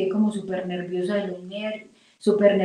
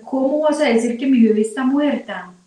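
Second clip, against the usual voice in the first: higher-pitched, mildly incredulous retort; disbelieving protest; 4 semitones higher, 3 dB louder than usual. Retold or imitated. Mother retelling her reply to the doctor's news, disbelieving protest. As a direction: question the awful news in disbelief.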